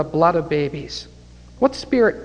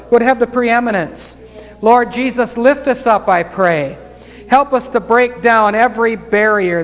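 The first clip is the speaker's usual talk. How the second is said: rising, loud pleading prayer voice; fervent prayer; 4 semitones higher, 5 dB louder than usual. Acted. Preacher closes the service calling on the Lord, fervent prayer. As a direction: pray over the congregation with fervour.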